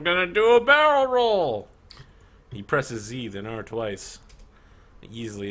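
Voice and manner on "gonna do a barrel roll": high, loud excited boast; a cocky beast showing off, much higher; manticore voice. Acted. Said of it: "The manticore says".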